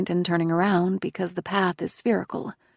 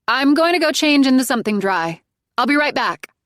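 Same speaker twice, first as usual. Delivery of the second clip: 1 telling mother; 7 semitones higher, 7 dB louder than usual. Acted. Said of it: "I tell my mother".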